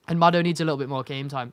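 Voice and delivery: hiccuping mid-sentence; talking through hiccups. Real, not acted. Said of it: "Sorry, I can't stop hiccuping there".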